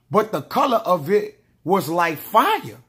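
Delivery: drawn-out, deliberate reading of the verse; slow solemn Bible reading; slow scripture reading. Acted. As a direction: read it as holy text, unhurried. Scripture read slowly.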